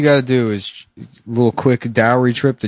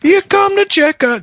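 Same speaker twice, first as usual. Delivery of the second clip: loud; 5 dB louder than usual. Acted. Loud repeat of line.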